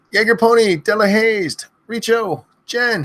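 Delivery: high yelled names, one after another; screaming names. Acted. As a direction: shout each name to the rafters. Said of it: "have me scream your name".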